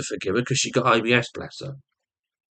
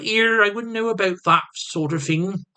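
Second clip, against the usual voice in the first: high-pitched mock female voice; imitating his partner; 9 semitones higher than usual. Partner cheekily answering him back, imitated in a higher voice. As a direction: put on her higher voice. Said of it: "And she goes".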